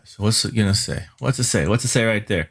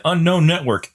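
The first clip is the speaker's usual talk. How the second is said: robotic computer voice; 6 semitones higher, 3 dB louder than usual. Retold or imitated. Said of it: "network cards are gonna say".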